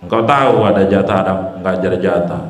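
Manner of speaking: low, fast and dismissive; rude careless prayer. Retold or imitated. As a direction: toss it off at God with no manners. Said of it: "Jangan begini".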